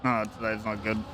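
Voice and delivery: words through a yawn. Real, not acted. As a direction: say it mid-yawn, soft and sleepy. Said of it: "I'm yawning".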